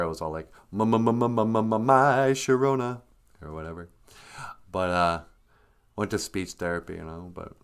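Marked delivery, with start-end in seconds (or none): 0.7-3.0 imitating a stutter. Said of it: "I used to have a stutter".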